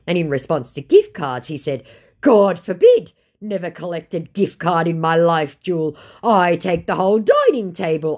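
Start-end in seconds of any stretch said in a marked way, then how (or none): 2.2-8.2 louder indignant put-on; hammed-up scoff; mock scammer. Voicing scammer.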